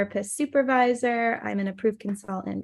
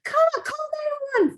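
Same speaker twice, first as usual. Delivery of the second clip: high-pitched mock scream for help; imitated frantic call, very high but not full volume; retold panicked scream. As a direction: cry out in panic, reined in for storytelling. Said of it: "screaming at the top of my lungs".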